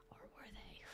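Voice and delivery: whisper. Pretend. Ominous aside after the mock report.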